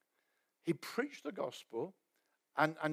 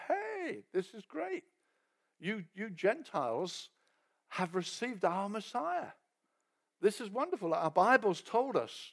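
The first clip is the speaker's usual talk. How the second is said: warm Judaizer welcome. Retold or imitated. Judaizers greeting new Gentile believers, gushing. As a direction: greet them like long-lost family.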